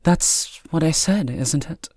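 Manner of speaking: slow, high, impatient retort; frustrated impatience. A narrator's reading. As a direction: draw it out with stern impatience. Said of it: "an expression of frustration and impatience".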